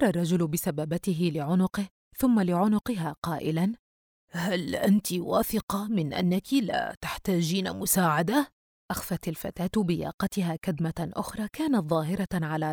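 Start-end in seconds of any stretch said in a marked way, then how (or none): 4.3-8.5 put-on slow, careful question in an old man's role; concerned old man. Old shopkeeper to bruised girl, slow and concerned. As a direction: ask slowly and with care.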